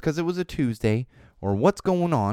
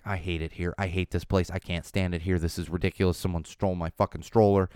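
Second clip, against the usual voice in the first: low frustrated grumble under the breath; muttering under breath; 7 semitones lower, 6 dB quieter than usual. Retold or imitated. Fuming dad mutters to himself about the stolen stroller, quietly. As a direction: grumble it so only you can hear. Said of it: "saying under my breath".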